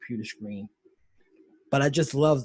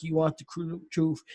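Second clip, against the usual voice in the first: "You want the cru-, truth?" pushed higher; rising challenge; 5 semitones higher than usual. Retold or imitated. The colonel challenges the lawyer, voice rising. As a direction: throw the question back, higher. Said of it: "He's like".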